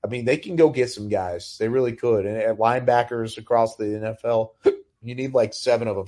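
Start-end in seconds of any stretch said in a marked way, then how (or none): 5.0-6.1 talking through hiccups; words broken by a hiccup. Real, not acted. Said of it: "Sorry, I've got the hiccups".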